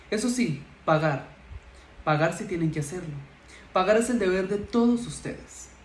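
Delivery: theatrical teacher addressing a class, measured with emphatic bursts; strict schoolteacher monologue. Acted. Señorita Margarita lecturing her new fifth-grade class, stern teacher. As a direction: play an authoritative schoolmistress, pausing between pronouncements.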